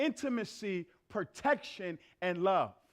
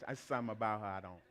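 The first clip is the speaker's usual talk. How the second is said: catty woman laughing; 12 semitones lower, 10 dB quieter than usual. Retold or imitated.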